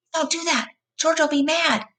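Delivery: high, scared pleading; frightened plea. A narrator's reading. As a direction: beg like a frightened child. Lenny begging in panic.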